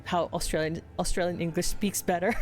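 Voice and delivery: lightly imitated Thai accent; retold Thai lady speaking accented English. Thai lady advising the speaker, light Thai accent. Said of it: "because she was speaking in that particular accent".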